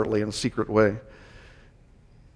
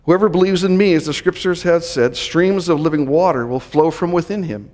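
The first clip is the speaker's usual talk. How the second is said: raised, emphatic public call; dramatic loud-voice proclamation; 5 semitones higher than usual. Retold or imitated. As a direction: proclaim it dramatically to a crowd, easing gradually. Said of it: "this unusual and dramatic way".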